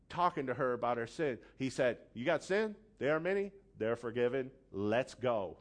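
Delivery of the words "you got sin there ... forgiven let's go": high, loud and brisk: let's go; brushing sin aside, urgent and raised; Jesus moving on. Retold or imitated.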